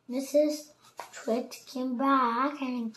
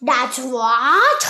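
screaming; 9 dB louder than usual. A narrator's reading. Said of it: "screamed Missus Twit".

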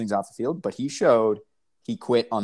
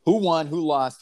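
hype announcer; 7 semitones higher, 3 dB louder than usual. Acted. Announcing the recap.

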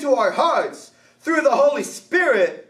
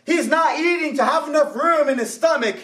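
grave vet warning; 4 semitones higher than usual. Retold or imitated. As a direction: deliver the twist like a stern vet. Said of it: "The veterinarian goes".

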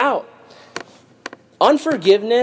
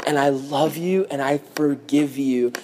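lower, softer, slowing down; tender forgiveness; 6 semitones lower, 5 dB quieter than usual. Acted. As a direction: gently reassure those who wronged you. Joseph tenderly forgives his brothers.

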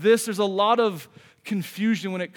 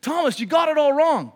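mock rebuke; 7 semitones higher, 4 dB louder than usual. Jesus voiced rebuking in retelling.

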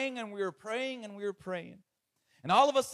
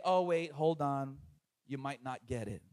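hesitant backtracking; 7 semitones lower, 4 dB quieter than usual. Acted. Mall staff retract the offer.

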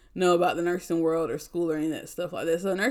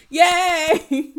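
much higher and louder happy yay; cheer; 10 semitones higher, 8 dB louder than usual. Real, not acted. Nurse glad her patient is still alive, a much higher and louder cheer. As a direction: celebrate like a small victory.

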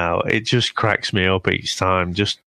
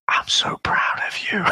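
whispering. Retold or imitated. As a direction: breathe it like a proud secret. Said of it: "he's, like, whispering to him".

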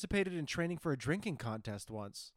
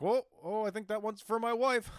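sheepish guy; 7 semitones higher than usual. Retold or imitated. Guy taking ice cream, retold.

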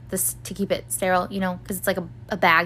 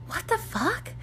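stunned squeak; 13 semitones higher, 6 dB quieter than usual. Retold or imitated. Shocked retold reaction.

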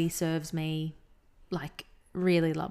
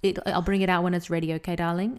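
mock South African barista; 4 dB louder, faster than usual. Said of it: "that was the accent I was trying to emulate".

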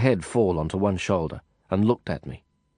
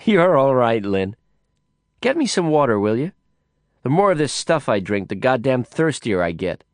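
a hint of a brash woman, a little higher and louder; brash drunk woman asking for water; lightly voiced woman; 4 semitones higher, 4 dB louder than usual. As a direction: toss it off, pleased and demanding.

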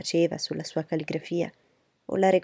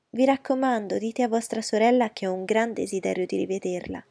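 higher, louder, gushing lady's voice; fawning society lady; 4 semitones higher, 3 dB louder than usual. Acted. Miss Bingley fawning over Darcy's letter, higher and gushing. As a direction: flatter him from a higher, eager pitch.

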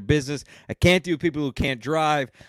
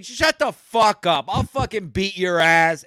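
slow, higher retold threat; mock threat; 4 semitones higher, slower than usual. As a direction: lay the threat on slowly. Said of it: "I was like".

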